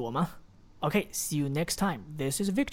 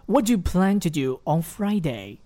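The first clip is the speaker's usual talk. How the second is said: linked and a bit faster; 3 dB louder than usual. Shown as a demonstration. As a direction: run it together, quicker. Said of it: "读得稍微快一点". (连读稍快)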